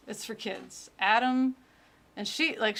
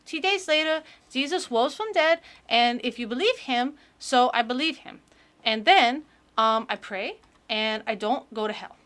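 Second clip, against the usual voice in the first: put-on eager child reading her testimony, a touch louder; little kid voice; 2 semitones higher, 4 dB louder than usual. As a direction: gush like a proud little kid. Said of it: "the little kid voice that I'm doing".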